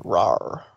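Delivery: low mock growl. Twilight growling at Pinky, mock growl. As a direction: growl at her. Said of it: "Twilight gave a growl".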